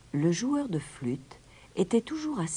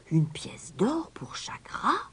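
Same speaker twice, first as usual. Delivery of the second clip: whispered, slow astonished murmur; murmuring crowd; 9 semitones higher than usual. Acted. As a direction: breathe it in disbelief. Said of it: "Un murmure parcourut la foule". (murmure chuchoté de la foule)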